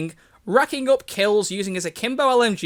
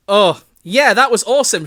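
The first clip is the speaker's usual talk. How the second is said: loud, raised excited voice; shouted; 3 semitones higher, 8 dB louder than usual. A narrator's reading. Reader voicing Elizabeth after the explosion, shouted. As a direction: shout it out with enthusiasm. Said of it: "shouted Elizabeth".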